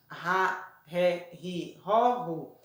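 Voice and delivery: "Ra, ré, ri, ró, ru" with h-like R, syllables apart; strong R sound. Shown as a demonstration. Teacher reviews double R between vowels, "Ra, ré, ri, ró, ru" with strong h-like R. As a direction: separate each syllable of "Ra, ré, ri, ró, ru", strong R. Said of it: "som forte".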